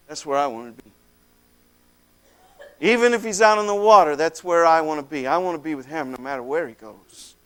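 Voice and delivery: low, soft and heartfelt; tender devotion. Acted. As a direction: settle into a quiet, sincere vow. Tender vow to follow Jesus.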